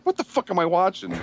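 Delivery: baffled laughing outburst; shocked, laughing. Retold or imitated. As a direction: disbelief with a laugh. Retold shocked reaction.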